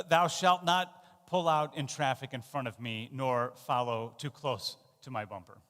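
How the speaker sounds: a hint of a lawgiver; lightly hammed-up decree; mock commandment. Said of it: "we might say it like this".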